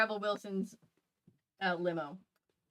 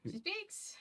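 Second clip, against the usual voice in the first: mock dramatic hush; 11 semitones higher, 11 dB quieter than usual. Friend echoes the line dramatically.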